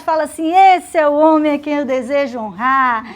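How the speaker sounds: loud, gloating self-important voice; boastful Haman. Acted. Haman to the king, loudly gloating over his imagined parade. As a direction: puff yourself up, savouring every honour.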